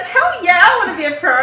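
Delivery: loud, high-pitched eager exclamation; re-enacted shout of excitement; excited yes. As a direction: burst out with an emphatic yes. Acting out her eager reaction.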